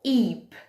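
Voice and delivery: EEP alone with a long "ee"; isolated rime. Shown as a demonstration. Teacher showing what remains of sheep, isolated rime. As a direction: say EEP as sheep without its first sound. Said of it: "tudo que sobra".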